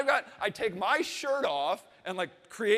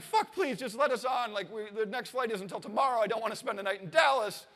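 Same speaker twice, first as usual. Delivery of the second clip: frantic pleading; 3 semitones higher than usual. Retold or imitated. Begging gate agent to board.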